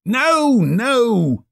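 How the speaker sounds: put-on asking the boy urgently; cheerful old man; eager Scrooge. Scrooge voiced.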